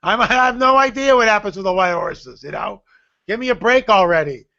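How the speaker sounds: a baffled why-me protest; exasperated. Retold or imitated. Telling the Lord he has no idea about horses, exasperated. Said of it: "I'm going like".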